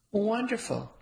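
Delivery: bright, eager burst of joy; thrilled mother welcoming the news; excited. Acted. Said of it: "Excitement was palpable in my mother's tone".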